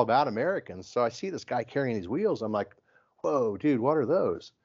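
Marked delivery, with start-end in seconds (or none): 3.2-4.5 retold wide-eyed "whoa", pitched higher; amazed question. Retelling spotting a guy with rare wheels, amazed. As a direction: act out being impressed by a stranger's find.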